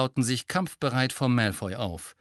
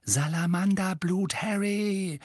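exasperated groan; 8 semitones higher, slower than usual. A narrator's reading. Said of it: "stöhnte Hermine".

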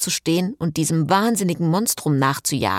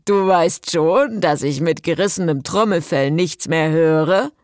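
complaining Jason; 3 dB louder than usual. A narrator's reading. Jason on car speakers protests, complaining. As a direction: whine about being screeched at.

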